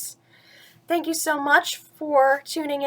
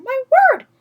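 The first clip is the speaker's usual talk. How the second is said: mildly raised, cheering voice; excited crowd; 3 semitones higher than usual. Acted. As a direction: cheer the elephant bird on. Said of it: "they shouted".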